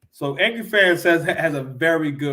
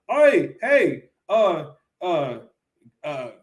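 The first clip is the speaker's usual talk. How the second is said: startled homeowner yelling; 6 semitones higher, slower than usual. Retold or imitated. Homeowner catching intruder, called out.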